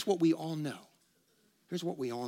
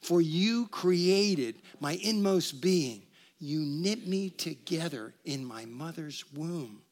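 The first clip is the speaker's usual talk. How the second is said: reciting again; much slower than usual. Acted. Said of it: "Once again".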